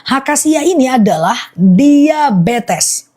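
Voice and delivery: slow, spaced-out list with pauses; unhurried, deliberate listing; slow repeat. Shown as a demonstration. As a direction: spell each item out slowly so viewers catch it. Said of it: "Aku ulang pelan-pelan".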